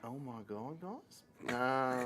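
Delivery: put-on light Australian accent. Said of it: "that's our Australian accent".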